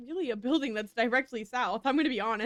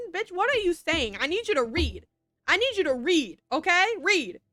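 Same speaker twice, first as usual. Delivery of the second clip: firm mock telling-off, a bit louder; mock scolding; 4 semitones higher, 5 dB louder than usual. Streamer scolding herself for misreading: mock stern. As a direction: scold yourself like a fed-up teacher.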